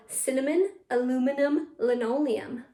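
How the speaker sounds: each word set apart with small pauses; careful model take. Shown as a demonstration. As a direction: list "cinnamon, aluminum, linoleum" clearly for pupils. Slower first take, then faster.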